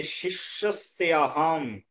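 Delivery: শিষ্যস্তে আহম drawn out deliberately; emphasis on key phrase. Shown as a demonstration. Teacher pointing out the most important words, শিষ্যস্তে আহম held out. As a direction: set শিষ্যস্তে আহম apart, stretching each word. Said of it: "সবচেয়ে গুরুত্বপূর্ণ হচ্ছে এই যে".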